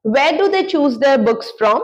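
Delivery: very slow, each word apart; slow model question. Shown as a demonstration. Teacher models a where question, very slow. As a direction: ask it slowly for learners. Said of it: "वो लोग अपनी किताबें क्यों चुनते हैं".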